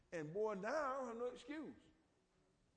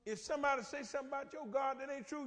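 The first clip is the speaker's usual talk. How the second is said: ordinary delivery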